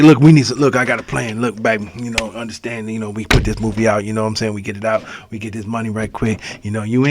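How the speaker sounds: soft, low huddle voice; hustler pitching a movie. Retold or imitated. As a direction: quietly imitate someone selling a quick-money plan. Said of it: "It looked like".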